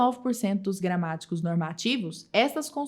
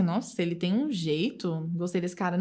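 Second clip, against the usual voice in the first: scornful; 4 semitones lower, 5 dB quieter than usual. Shown as a demonstration. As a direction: sneer at him quietly. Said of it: "noção de depreciação". (desdenhoso, baixo e lento)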